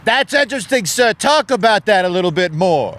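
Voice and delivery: high-voiced probing counsellor; mock therapist through the door; amateur therapist. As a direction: draw the customer out, pitched high. Plays courier acting as therapist.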